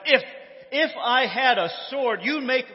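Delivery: high, loud mock outburst; acted angry shout. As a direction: shout it at the donkey, stumbling in indignation. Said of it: "Balaam shouted".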